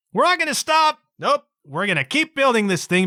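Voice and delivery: lightly voiced builders refusing to stop; stubborn builders. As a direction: play the stubborn builders, pushing on. Voicing stubborn Pisa builders.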